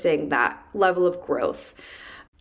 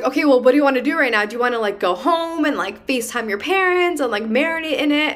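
a boss eagerly offering the day off; excited boss; 5 semitones higher, faster than usual. Retold or imitated. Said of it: "my boss was like".

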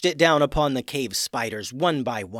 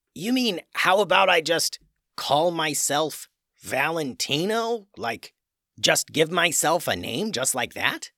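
put-on surprised young troll; 4 semitones higher than usual. Troll amazed at naming himself.

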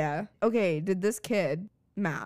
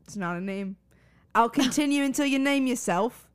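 put-on British accent. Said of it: "about your British accent".

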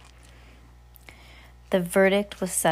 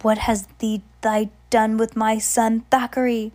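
grieving anger. Acted. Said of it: "he said".

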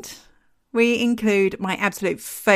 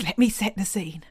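conspiratorial whisper. Acted. Starting to tell the story.

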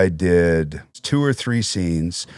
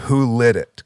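raised, louder awed question; excited question; 5 semitones higher, 5 dB louder than usual. Retold or imitated. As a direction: ask it louder and higher, impressed. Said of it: "So they said".

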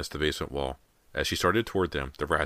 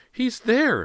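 very high, loud alarmed cry; shriek; 8 dB louder than usual. A narrator's reading. Mother points out where son is, loud shriek. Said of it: "Missus Fraser shrieked".

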